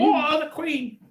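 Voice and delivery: a pompous Cockney putting on airs; exaggerated British accent; mock British.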